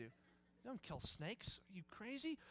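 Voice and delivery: whispered, half-joking reproach; mock scolding whisper. Pastor whispering a mock rebuke at whoever killed the snake. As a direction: hiss it like a secret scolding.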